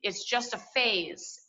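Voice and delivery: slow, dismissive mom voice; imitating mom, slowly waving it away; mock dismissive mom. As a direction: brush it off like a tired mother. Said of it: "her going".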